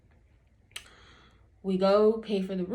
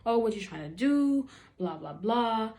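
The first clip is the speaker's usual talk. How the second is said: mock rough challenge; 3 semitones higher than usual. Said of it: "talking to the guy all rough".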